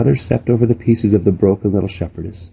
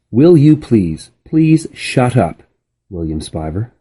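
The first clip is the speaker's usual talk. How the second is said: slow, louder title reading; chapter title read; 3 semitones higher, 3 dB louder than usual. A narrator's reading. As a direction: announce the chapter title slowly. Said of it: "Chapter sixty-six".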